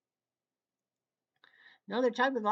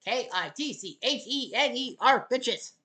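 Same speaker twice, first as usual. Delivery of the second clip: excited; 2 semitones higher, 4 dB louder than usual. Real, not acted. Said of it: "Sorry, I get excited".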